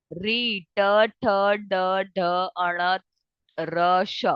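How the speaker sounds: ट ठ ड ढ said with the tongue tip curled back; retroflex sounds demo. Shown as a demonstration. Teacher demonstrating retroflex letters, careful sounding out. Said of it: "pronounce करके देखो इसे".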